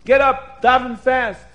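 very loud, high-pitched command; urgent bellowed order; screaming. Acted. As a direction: yell them out of bed. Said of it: "He just screams".

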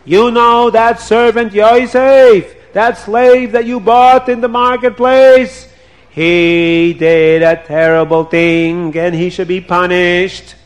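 high, slow, accusing; wife denouncing the slave. Acted. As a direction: drag out the blame.

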